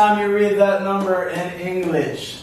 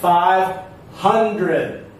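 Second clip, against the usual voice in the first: Five hundred split, HUN raised, then falling; stress on HUNdred. Shown as a demonstration. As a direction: pause after Five, lean on HUN. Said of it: "Do you hear the syllable stress".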